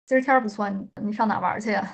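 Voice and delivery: 今儿天儿 and 玩儿 rolled into quick curled syllables; Beijing erhua demo. Shown as a demonstration. Asked to show Beijing speech, quick erhua-laden line. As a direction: rattle it off fast like a true Beijinger. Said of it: "performs on request".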